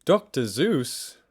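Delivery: slow, loud confused echo of Doctor Zeus; reading out the viewer's request in mock confusion; puzzled repeat. Real, not acted. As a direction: drag out the name in mock bafflement. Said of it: "He's not part of the Norse gods".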